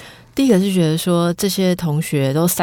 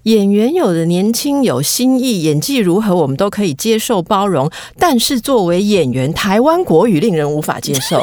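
reading survey comment. Retold or imitated. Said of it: "给我们看问卷调查".

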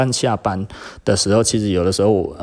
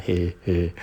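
mock snicker; 3 dB quieter than usual. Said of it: "就是窃笑".

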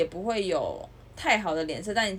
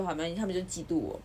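resigned self-talk; 3 semitones lower, 7 dB quieter, faster than usual. Retold or imitated. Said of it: "调整心态说".

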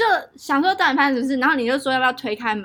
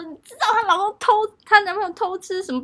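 exaggerated gossip; 8 semitones higher, faster than usual. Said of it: "我讲话就是很浮夸".

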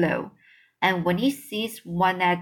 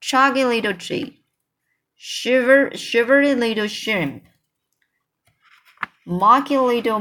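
shouting; 3 semitones higher, 4 dB louder than usual. A narrator's reading. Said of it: "they shouted".

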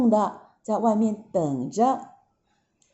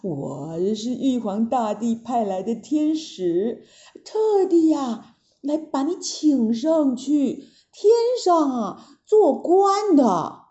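put-on old immortal envoy; 3 semitones higher than usual. Storyteller voicing the envoy to children, coaxing. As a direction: sweet-talk the monkey up to heaven. Taibai Jinxing invites Sun Wukong.

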